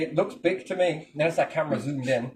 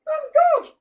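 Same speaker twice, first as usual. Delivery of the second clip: high, loud proclamation as God; booming god voice; 6 dB louder than usual. Acted. Tiny life form shouting that it is God.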